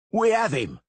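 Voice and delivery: loud, high triumphant shout. Acted. Masons shouting that they have caught him. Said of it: "the masons shouted".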